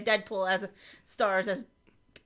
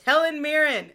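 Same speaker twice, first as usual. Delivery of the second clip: higher, louder shout from the back; called-out suggestion; 6 semitones higher, 8 dB louder than usual. Acted. Someone in the back pitches a casting idea, calling out. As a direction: pipe up loudly with a bright idea. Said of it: "someone in the back went".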